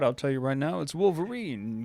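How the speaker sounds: put-on confiding old-timey barker aside; carnival barker. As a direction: drop out of the big pitch to tip off the crowd. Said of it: "can we get, like, a carnival barker".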